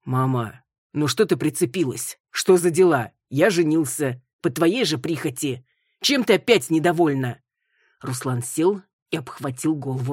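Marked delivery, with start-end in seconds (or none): 0.0-7.4 irritated son. Acted.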